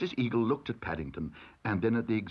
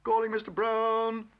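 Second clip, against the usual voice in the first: calling out; 11 semitones higher than usual. A narrator's reading. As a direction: call the name down a corridor. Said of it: "heard his name being called".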